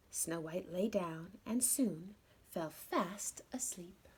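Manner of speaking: slow, whispered lullaby tone; sleepy whisper. Acted. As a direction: hush it as she drifts off. Lulling sleep line.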